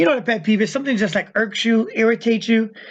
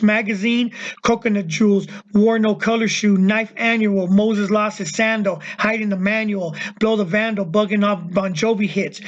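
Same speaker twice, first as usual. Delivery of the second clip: lyric recital. Acted. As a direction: rap lyrics read aloud, unsung. Reads out a second rap lyric.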